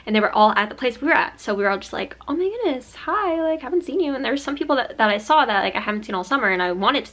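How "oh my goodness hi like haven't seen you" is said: louder, higher delighted hello; retold excited greeting. Friends meeting at breakfast after a summer apart, excited greeting. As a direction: imitate greeting long-missed friends.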